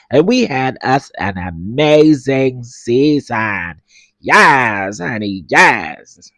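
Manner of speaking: lightly hammed-up host voice with slow yes honey yes; mock show host. Mocking the reunion host for her followers, hammy host voice. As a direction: play the grand reality show host, drawn out. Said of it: "I just had to do it 'cause my baby said she ain't like his voice".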